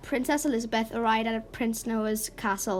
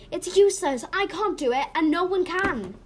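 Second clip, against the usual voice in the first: high, louder cry of defeat; despairing; 7 semitones higher, 4 dB louder than usual. Acted. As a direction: give up in exasperated despair. Princess gives up in despair.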